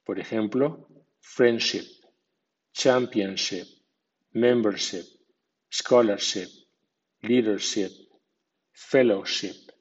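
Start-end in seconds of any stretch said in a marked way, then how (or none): 1.2-9.7 friendship with ship given a secondary stress; medium stress on ship. Shown as a demonstration. Teacher lists ship words for learners, medium stress on ship. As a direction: say membership with ship clear, not reduced. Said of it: "ship con acento medio. Por ejemplo".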